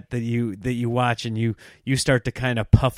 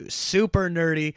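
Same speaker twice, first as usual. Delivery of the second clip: ordinary talk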